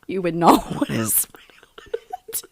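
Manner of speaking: whispered through giggles; breathless laughing whisper; giggling whisper. Real, not acted. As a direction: hush it while laughing.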